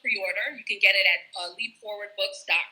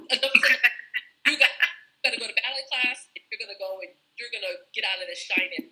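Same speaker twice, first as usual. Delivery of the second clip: firm Jamaican mother, lightly voiced; Jamaican accent; faster than usual. Mom ordering her shy daughter to ballet class, Jamaican accent. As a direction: put on a Jamaican accent to lay down the law. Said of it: "in her Jamaican accent".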